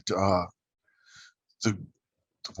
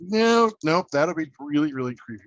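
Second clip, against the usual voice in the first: alarmed refusal; 5 semitones higher, 5 dB louder than usual. Retold or imitated. Imagined celebrity refusing him.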